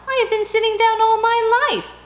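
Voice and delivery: high, loud outburst; old lady insisting, high and loud; exclaiming. Acted. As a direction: burst out in protest.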